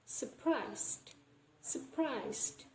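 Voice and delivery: surprised as "suh-prized"; dropped first R. Shown as a demonstration. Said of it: "we don't pronounce the R sound".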